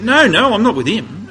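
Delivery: imitating a caught-out man blurting a denial; taken aback. Peter, taken aback, denies knowing Jesus, surprised. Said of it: "like, taken aback, surprised".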